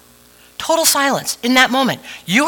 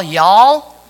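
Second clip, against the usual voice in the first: Southern drawl; 2 semitones lower, 6 dB louder than usual. Shown as a demonstration. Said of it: "like the Southern drawl".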